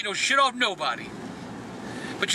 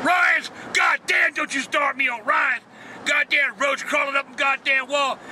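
outraged rant; 2 semitones higher, slower than usual. Acted. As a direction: explode in disgust. Ranting about roach at restaurant.

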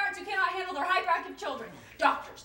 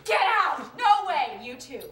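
raised, louder burst of amazement; amazed disbelief; 3 dB louder, slower than usual. Acted. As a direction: exclaim in happy disbelief. Amazed to share the diagnosis.

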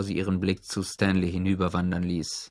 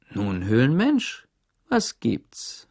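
stern guard; much slower than usual. A narrator's reading. Mister Sir voiced character.

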